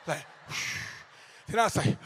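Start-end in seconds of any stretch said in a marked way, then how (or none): 0.5-0.9 held breath released in a long sigh; let breath out. Acted. Coach letting out his held-in stomach, exaggerated exhale. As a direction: exhale after sucking in the stomach. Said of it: "I had to let it back out".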